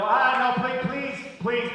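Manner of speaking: loud desperate pleading; begging. Retold or imitated. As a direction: beg for the cab like a refugee. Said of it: "and I go".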